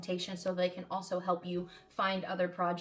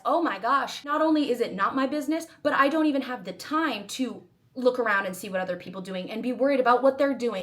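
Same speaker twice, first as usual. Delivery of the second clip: loud, higher-pitched self-talk epiphany; animated, forceful inner monologue said aloud; acted sudden realization; 4 semitones higher, 9 dB louder than usual. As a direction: exclaim it emphatically, as if it just dawned on you.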